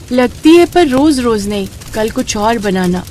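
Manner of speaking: put-on high child voice, protesting to mother; a picky daughter putting in her demand; fed-up little daughter. Daughter answers mother, wants something else. (नखरे वाली बेटी की आवाज़)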